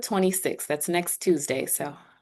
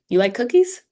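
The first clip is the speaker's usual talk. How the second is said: "You like cookies?" climbing high on "cookies"; louder, higher yes-no question, "cookies" lifted sharply; rising question intonation; 7 semitones higher, 6 dB louder than usual. Shown as a demonstration. Teacher showing students a yes-no question, voice going up. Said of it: "your intonation would go up".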